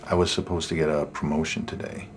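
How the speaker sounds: soft, low, downcast admission; subdued confession. Acted. Man admitting he missed his promotion, dejected. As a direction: confess the disappointment quietly, voice sunk. Confessing failure, cannot smile today.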